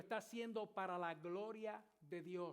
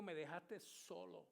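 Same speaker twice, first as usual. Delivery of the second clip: slow, softer hurt plea; telling God he was left alone; tearful; 7 dB quieter, slower than usual. Retold or imitated. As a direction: let it fall quietly, wounded. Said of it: "Pero en llanto".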